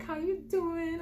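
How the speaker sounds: high-pitched imitation of a friendly mom; greeting mom. His mom answering the door, in a high greeting. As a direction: sing out a sociable hello.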